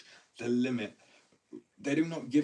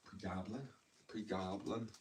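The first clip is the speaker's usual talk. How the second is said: put-on Irish accent; 7 dB quieter, slower than usual. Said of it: "I literally had an Irishman".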